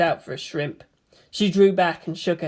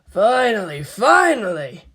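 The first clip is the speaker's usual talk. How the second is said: a bit higher and eager, bouncing with joy; excited exclamation; 3 semitones higher, 3 dB louder than usual. Acted. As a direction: cheer that the food is here. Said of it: "Toji exclaimed".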